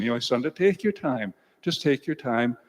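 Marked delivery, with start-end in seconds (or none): 0.5-1.3 lightly imitating a gentle dad, soothing; gentle fatherly advice. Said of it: "Dad was a very gentle person".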